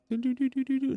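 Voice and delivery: high, soft doo-doo chime; imitated doorbell chime. Storyteller mimicking the family's doorbell, high soft chime. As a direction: mimic a little electronic door chime. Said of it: "the little chime bell".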